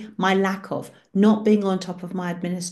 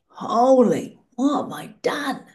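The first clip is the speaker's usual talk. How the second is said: startled, slightly higher yelp of alarm; mock panic; 5 semitones higher than usual. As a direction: act out a sudden oh-no moment, lightly. Retold panic in heaven's tent.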